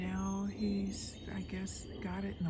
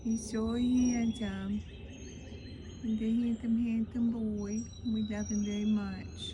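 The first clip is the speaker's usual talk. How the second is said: talking to a dog; 3 semitones higher, 3 dB louder than usual. Real, not acted. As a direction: gush over the dog. Praising dog in baby talk.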